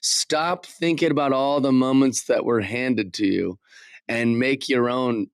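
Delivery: put-on slow, deliberate go at his wrestler accent; Kevin Owens promo accent. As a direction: imitate his accent, drawing the words out. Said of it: "the accent is. I can't do it".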